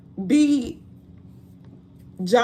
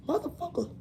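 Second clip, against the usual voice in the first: mock everyday cussing; 5 semitones higher, 11 dB quieter, faster than usual.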